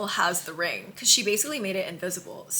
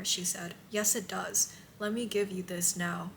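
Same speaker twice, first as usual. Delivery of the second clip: hushed romance narration; reading aloud; 4 dB quieter than usual. A narrator's reading. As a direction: read the tender scene quietly. Reads kissing scene aloud.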